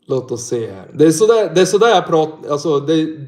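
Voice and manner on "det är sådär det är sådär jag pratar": Norrland dialect shown off, a bit louder; showing his northern Swedish accent; broad Norrland accent. Shown as a demonstration. Streamer demonstrating his Norrland accent to chat. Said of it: "that is the accent I have when I speak".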